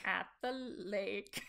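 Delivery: "At the lake." slow, quiet, tentative Minnesota accent. Shown as a demonstration. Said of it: "we'll break it down".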